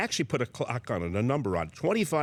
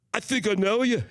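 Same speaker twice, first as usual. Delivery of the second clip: high, loud voice of a star approaching; impression of a famous singer; 9 semitones higher, 4 dB louder than usual. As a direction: play the surprised celebrity tapping his shoulder. The singer taps his shoulder.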